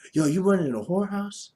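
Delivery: imitating a menacing crackhead neighbor; crack neighbor voice. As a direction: play the crazed neighbor confronting him. Neighbor voiced in retold encounter.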